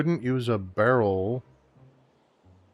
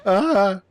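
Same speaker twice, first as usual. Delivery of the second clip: loud high yell; short high "ah" cry; hero's failed battle cry; 11 semitones higher, 8 dB louder than usual. Acted. Not quite the battle cry.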